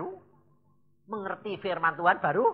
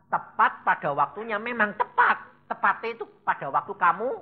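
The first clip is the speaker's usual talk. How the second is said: laughing; 3 semitones higher, 4 dB louder than usual. Real, not acted. Laughs while making his point.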